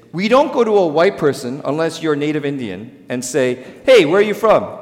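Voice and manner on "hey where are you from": louder and higher, a pushy stranger asking; loud, pushy questioner. Retold or imitated. Stranger pressing a white man on his origin, loud and pushy. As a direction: demand to know where he is from, loud and higher.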